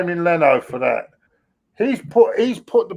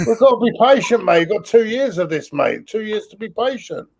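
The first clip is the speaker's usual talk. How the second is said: sarcastic patience; 3 semitones higher than usual. Real, not acted. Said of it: "Your sarcasm is dripping".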